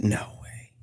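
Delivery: breathless whispered no way; hushed stunned no way; whispered disbelief. Retold or imitated. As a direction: barely voice it in shock. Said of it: "I was like".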